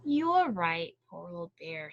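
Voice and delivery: sighing. Acted. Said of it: "sighed Hare".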